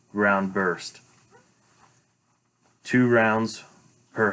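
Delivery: steady radio call-for-fire voice; calm radio fire call. Shown as a demonstration. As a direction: read each transmission like radio traffic. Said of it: "First omission".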